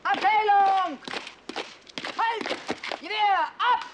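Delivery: high, loud drill commands; shouted command. Acted. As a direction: bark orders across the square. Unteroffizier brüllt Kommandos. (Kommandos brüllen)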